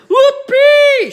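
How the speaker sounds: a high, loud whoop of delight; wild, gleeful whoop; joyful shout. Acted. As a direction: let it burst out like a giddy old grandma. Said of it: "she shouted".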